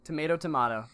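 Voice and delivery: "tomato" as tuh-MAY-toe, then tuh-MAH-toe; two pronunciations. Shown as a demonstration. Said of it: "That's exactly what it is".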